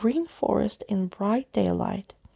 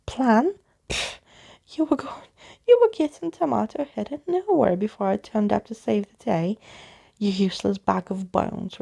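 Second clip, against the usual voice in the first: scornful scolding; 3 dB louder than usual. Acted. Daisy scolding Skeleton Keys.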